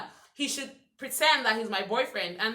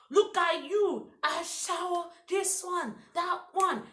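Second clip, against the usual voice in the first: mocking insult voice; 6 semitones higher, slower than usual. Suitor insulting her, acted out.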